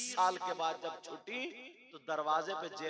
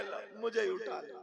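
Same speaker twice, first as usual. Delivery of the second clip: meek climbdown; 3 semitones higher than usual. Acted. Husband backs down, comic punchline.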